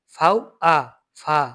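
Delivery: slow spelling out, ফাউ, আ, then ফা with an f sound; ফাউ plus আ blended slowly into an f-sound ফা. Shown as a demonstration. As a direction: sound out German V as an f in ফা. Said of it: "এটা কিন্তু ফয়ের মতো উচ্চারণ দেয়".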